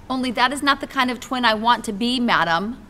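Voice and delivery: put-on loud, high childish yell. Junie B. yelling at Lucille in class, loud. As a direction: shout it back at your friend. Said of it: "I yelled".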